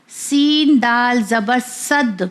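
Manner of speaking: slow spelling-out, صد ending in a bounced d; سین دال زبر صد recited slowly, echoing d in صد; qalqalah on صد. Shown as a demonstration. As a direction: press the final d of صد so it echoes. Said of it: "تو اسے ذرا پریشر سے پڑھا جاتا ہے".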